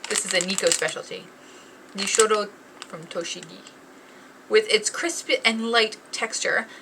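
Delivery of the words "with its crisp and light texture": ad read. Acted. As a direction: read it like a polished ad. Reads rusk description card.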